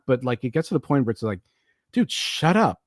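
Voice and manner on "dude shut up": exasperated. Retold or imitated. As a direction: beg him to stop talking already. Fed up with irritating math teacher.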